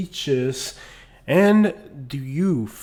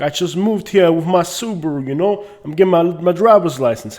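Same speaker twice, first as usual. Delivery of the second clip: lightly voiced New York newcomer, higher pitched; 4 semitones higher, 4 dB louder than usual. New Yorker at the DMV introducing themselves, imitated newcomer voice. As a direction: put on a transplant from New York.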